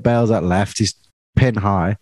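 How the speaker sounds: normal talking voice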